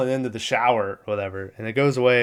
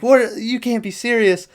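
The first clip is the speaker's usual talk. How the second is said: high-pitched incredulous outburst; mock disbelief; 9 semitones higher than usual. Podcaster acting mom as truck reverses, mock disbelief. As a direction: blurt it out, appalled. Acted wife's disbelief in retold scene.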